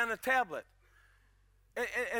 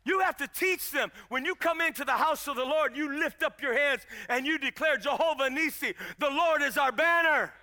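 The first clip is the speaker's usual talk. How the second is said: insistent preaching, building a little louder; 3 semitones higher, 4 dB louder than usual. Real, not acted. Preacher urging parents to teach children, insistent preaching. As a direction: urge the church with raised voice.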